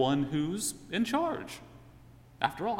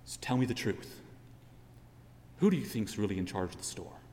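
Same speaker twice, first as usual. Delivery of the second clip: raspy whisper; 4 semitones lower, 5 dB quieter than usual. Acted. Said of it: "whispers in a raspy voice to you".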